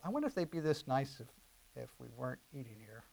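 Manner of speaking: hushed teasing to his wife; quietly joking across the table; soft joking aside. Retold or imitated. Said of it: "I kinda tease my wife".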